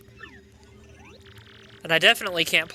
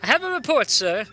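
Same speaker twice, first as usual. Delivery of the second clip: reporting henchman. Acted. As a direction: deliver the report as a loyal minion. Henchman reports to villain boss.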